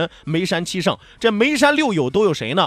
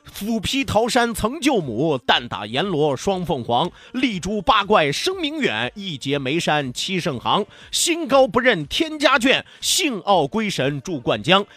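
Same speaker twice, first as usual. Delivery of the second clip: slow, measured verse recital; poem recitation. Acted.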